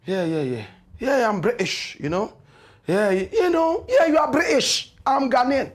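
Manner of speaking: mocking. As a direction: sneer yeah yeah you are British. Mocking the British Ghanaian.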